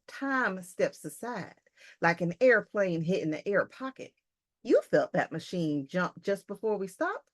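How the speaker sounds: lightly voiced story character explaining; a hint of a put-on accent, measured delivery; Lesperance. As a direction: lightly act out the expedition member's explanation. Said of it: "so this is Lesperance talking".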